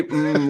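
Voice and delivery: imitated hum of someone eating pie; savoring "mm". Teasing the co-host about their habit, mock savoring hum. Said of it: "like you're eating pie".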